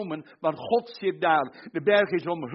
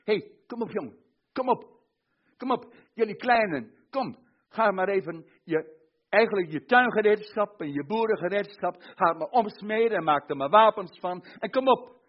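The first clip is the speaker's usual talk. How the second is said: God calling the nations; 5 semitones higher than usual. Acted. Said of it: "En hij zegt".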